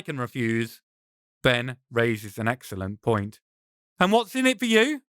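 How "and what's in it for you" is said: higher, wary companion voice; demanding what's in it for him; suspicious challenge. Acted. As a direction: Ben pressing a suspicious stranger. Ben challenges the stranger.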